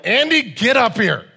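calling his son upstairs, loud; dad yelling for his son to come up; retold yell. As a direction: shout it up the stairs. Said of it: "And I yelled".

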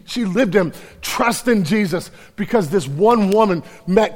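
loud, high, driving sermon voice; full-force preaching. Acted. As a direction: preach it out to the crowd.

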